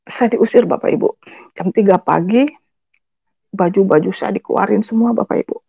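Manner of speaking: ordinary talk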